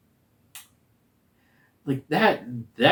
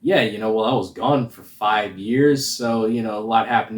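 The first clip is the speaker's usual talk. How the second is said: sarcastic; 4 dB louder than usual. Retold or imitated. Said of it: "he starts off being sarcastic".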